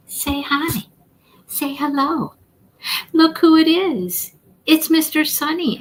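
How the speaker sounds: high, sing-song voice to the cat; pet talk. Real, not acted. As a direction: show off the kitty sweetly. Presenting the cat to viewers.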